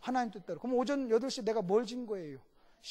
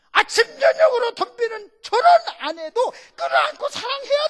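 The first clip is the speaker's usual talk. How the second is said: high, loud preacher's cry; full-force preaching; 11 semitones higher, 12 dB louder than usual. Acted. Pastor preaches to the congregation at full force. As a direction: hammer the point home to the congregation.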